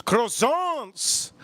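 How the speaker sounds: high delighted cry of croissants; excited exclamation. Pretend. Streamer raves about French croissants, high excited cry. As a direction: savour the word with glee.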